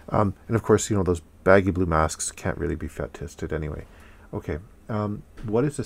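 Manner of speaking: muffled behind a respirator; speaking through mask filter; through a face mask. Real, not acted. Seen 4: Small webcam inset: white respirator on face throughout all frames.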